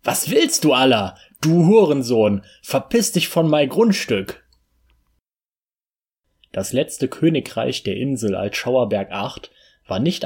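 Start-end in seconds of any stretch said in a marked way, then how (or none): 0.0-4.4 laut pöbeln, gegen Ende höher; wütend schimpfen. Acted. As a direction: den Eindringling anschreien. Wiederholung, wütend gepöbelt. (Rainer pöbelt wütend vom Grundstück)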